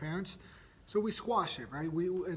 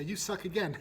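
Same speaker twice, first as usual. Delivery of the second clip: higher, laughing insult; giggling taunt; 4 semitones higher than usual. Retold or imitated. Daughter laughing as she repeats the insult. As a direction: say it through a giggle.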